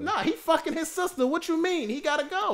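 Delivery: high-pitched outrage at the incest defense; heated protest. Real, not acted. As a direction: push back, worked up. Heated Game of Thrones argument.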